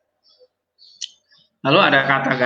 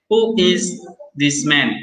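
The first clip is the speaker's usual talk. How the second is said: slow example; 3 semitones higher, slower than usual. Shown as a demonstration. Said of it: "Lalu ini".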